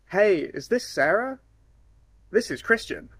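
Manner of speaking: flat, bored phone hello, slow; unenthusiastic greeting. Shown as a demonstration. Sales caller greeting a lead, unenthusiastic. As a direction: sound like you'd rather not call. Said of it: "Not very enthusiastic".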